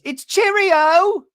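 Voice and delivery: very high, drawn-out mock British trill; hooting, hammed-up London farewell; Shannon. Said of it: "And she goes".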